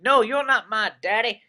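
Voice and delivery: put-on half-hearted Southern redneck accent. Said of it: "that was my redneck voice".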